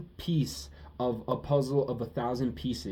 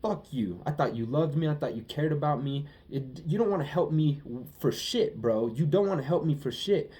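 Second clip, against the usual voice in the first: mock outrage; 3 semitones higher than usual. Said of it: "'cause I'm like".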